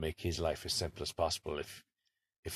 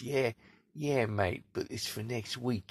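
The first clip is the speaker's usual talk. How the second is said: imitating Cockney Dave; 4 semitones higher, slower than usual. Cockney Dave's punchline.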